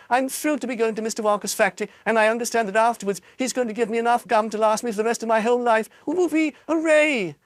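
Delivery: put-on high, fast boastful girl; gleeful spoiled girl, high voice; bratty girl voice. Violet brags to reporters.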